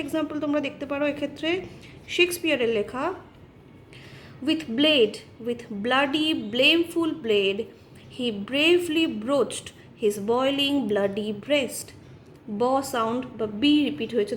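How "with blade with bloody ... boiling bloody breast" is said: slow, emphatic verse reading; poem recitation. Acted. Teacher reciting Shakespeare to show the b sound, slow emphatic recitation. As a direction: recite slowly, landing each alliterating word.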